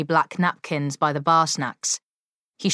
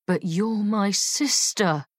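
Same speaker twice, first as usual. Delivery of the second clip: whiny; 3 semitones higher, slower than usual. Acted. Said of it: "Sam whined".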